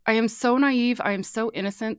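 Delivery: put-on high, innocent little girl voice; childlike voice. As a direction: sound like a naive child. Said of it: "I sound like a child".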